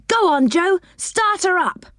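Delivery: high, eager cry; eager urging. A narrator's reading. Rick urging Joe to start, excited high cry. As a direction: egg him on.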